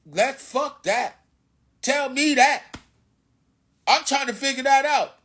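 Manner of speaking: loud, high, hyped-up shouting rant; acting stupid yelling. Ranting at the audience about pilgrims, loud and high. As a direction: yell it like a wound-up street preacher. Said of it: "I started acting stupid again".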